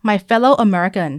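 very slow, measured oratory; JFK speech quote. Retold or imitated. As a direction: deliver it like an inaugural address, with long pauses. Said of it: "ประมาณว่า". (อ่านช้าๆ แบบสุนทรพจน์)

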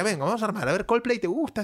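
put-on jolly him along like a nervous kid; doctor humouring a child. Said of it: "Me decía". (imitando al médico animándolo como a un niño)

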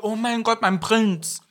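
high, breathy-free swoon at her prince, hammed-up; mock swooning. Friend mocking the flattered reaction, swooning high. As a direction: gush over the stranger as if he were her dream prince. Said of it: "Und du so".

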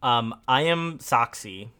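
a touch of a sock puppet voice; goofy muffled sock puppet. Pretend. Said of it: "Doing a good job punching it".

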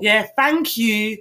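slow, stretched "Yeah, thank you"; drawn-out thanks. Retold or imitated. Thanking the cashier as stuff is handed over, slow. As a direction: drag the thanks out lazily. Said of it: "And then be like".

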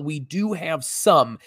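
slow, leaning hard on "some"; stress on some. Shown as a demonstration. Announcing scarce tickets, stressing the word some. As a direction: stretch out "some" so it lands. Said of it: "let me emphasize the word some".

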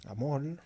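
"amor" con L final, "amol"; L en vez de R. Retold or imitated. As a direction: di "amor" cambiando la R final por una L. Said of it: "por el tema de la L". ("amor" dicho "amol", con ele)

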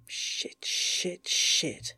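breathy whispered swearing; whispered curses. Acted. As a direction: hiss the curses in dread. Whispered curses before call.

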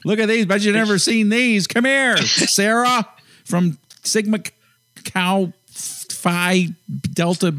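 high, slow showing-off frat guy. Pretend. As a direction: hype up the kid like a frat brother.

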